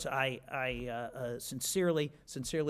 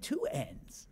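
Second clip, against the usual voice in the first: much higher, altered voice pointing out the letters; exec correcting; 14 semitones higher, 5 dB quieter than usual. Retold or imitated. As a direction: correct him in a squeaky voice. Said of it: "he said".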